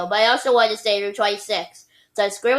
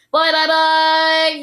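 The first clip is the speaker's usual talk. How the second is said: high, loud, slow croaking; excited frog; 7 semitones higher, 6 dB louder, much slower than usual. Pretend. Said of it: "like a very excited frog".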